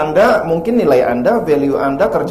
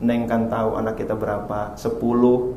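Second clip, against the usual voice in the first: softer, lower, patient husband; gentle husband; 3 semitones lower, 5 dB quieter than usual. Retold or imitated. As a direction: explain it gently to your wife. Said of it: "Apa kata suaminya?". (suami lembut dan sabar)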